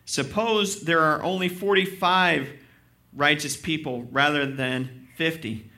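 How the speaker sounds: loud, driving preacher's reading of the passage; fervent scripture reading. Acted. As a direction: read Abraham's plea with full conviction. Pastor reads scripture aloud.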